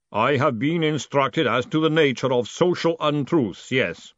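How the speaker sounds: slow, deliberate creature voice; ponderous golem. A narrator's reading. Golem answering Moist about lying, ponderous. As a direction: measure out each word formally.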